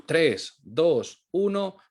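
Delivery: put-on punchy countdown for the children; classroom countdown. Shown as a demonstration. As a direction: count down with a little build to "uno". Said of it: "hacemos una cuenta atrás".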